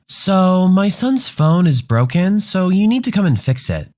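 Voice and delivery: lightly voiced entitled mom, sweetly demanding; a hint of a sugary customer making demands; sweet-voiced Karen. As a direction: caller sweetly insisting the shop fix her son's phone. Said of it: "to hear a sweet voice on the other end".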